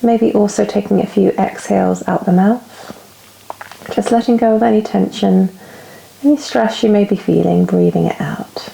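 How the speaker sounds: calm yoga teacher's guiding voice with long pauses; guided relaxation. Real, not acted. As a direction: ease them into stillness, phrase by phrase. Leads yoga relaxation and breathing.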